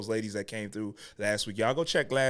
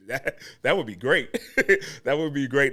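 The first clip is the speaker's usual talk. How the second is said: amused laughing; 3 semitones higher, 4 dB louder than usual. Real, not acted. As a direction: say it through a real chuckle. Laughs while asking for book sales.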